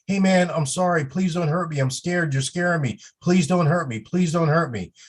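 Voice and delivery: mock frightened begging for the crowd; acting scared. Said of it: "as though we're scared".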